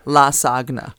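"La Sagna" slow and drawn out, stress on "La"; mock La Sagna. Shown as a demonstration. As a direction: tease "La Sagna" with a long slow "La". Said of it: "You're gonna be talking about".

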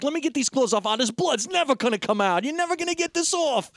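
high mock panic, climbing; frantic fretting. Imitating a character scrubbing bloody clothes, frantic fretting.

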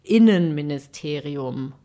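unsure. Real, not acted. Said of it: "ich glaube".

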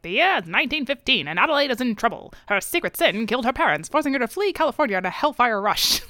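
put-on lightly done old radio announcer; old-time radio announcer. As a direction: read it like a hint of vintage radio drama. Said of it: "reading it like an old-time radio".

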